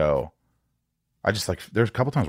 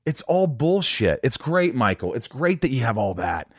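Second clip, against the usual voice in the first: sarcastic; 5 semitones higher than usual. Retold or imitated. Mocking a friend's hollow praise.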